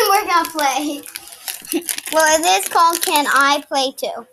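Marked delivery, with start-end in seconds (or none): 0.0-1.0 giggling as you speak; laughing. Real, not acted. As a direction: say it through a laugh. Repeat with laugh.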